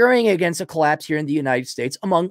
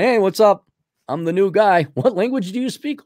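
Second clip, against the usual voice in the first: mock clueless newcomer; 3 semitones higher than usual.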